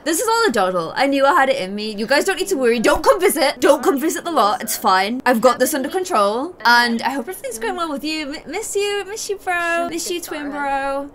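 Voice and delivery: bright, breezy, overly upbeat; fake cheerful phone call. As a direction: pretend everything is fine. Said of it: "she's probably just like".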